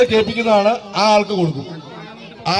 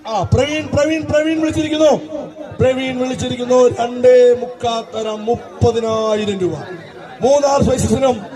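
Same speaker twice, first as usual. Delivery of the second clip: auctioneer; slower than usual. Acted. Auctioneer drawing out final call.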